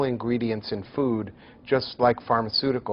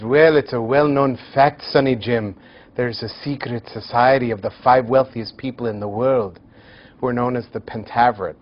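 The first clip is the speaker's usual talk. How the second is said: hammed-up Scottish father, louder at the start; a lecturer's bad Scottish accent for a movie quote; poor Scottish accent; 5 dB louder than usual. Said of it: "forgive my very poor Scottish accent".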